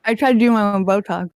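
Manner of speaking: lips too stiff to close for P's; paralyzed lips. Real, not acted. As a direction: talk with numb, frozen lips. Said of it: "my lips are paralyzed".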